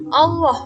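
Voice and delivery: "Allah" with a heavy, dark l; thick reading. Shown as a demonstration. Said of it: "Cara membacanya tebal".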